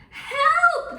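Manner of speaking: high, loud panicked cry; scream for help. Acted. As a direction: yell it like a frightened fisherman. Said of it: "they screamed".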